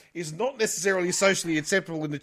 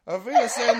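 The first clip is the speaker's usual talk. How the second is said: high, loud, laughing auf Wiedersehen; laughing mock German goodbye; 7 semitones higher, 7 dB louder than usual. Host saying goodbye to listeners, laughing through mock German. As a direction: laugh your way through a fake German farewell.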